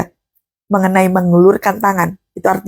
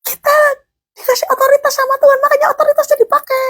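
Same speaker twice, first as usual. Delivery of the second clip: declaring authority; faster than usual. Acted. Preacher declaring authority, sermon.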